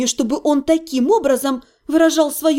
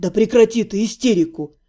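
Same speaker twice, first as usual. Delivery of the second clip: exasperated snap; 5 semitones lower than usual. A narrator's reading. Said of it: "не выдержал Ирга".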